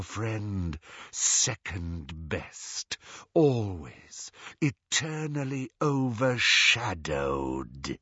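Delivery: slow, sinking taunt; taunting evil voice. Acted. Evil locket voice belittling Ron, a slow taunt. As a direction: draw it out slowly, sinking at the end.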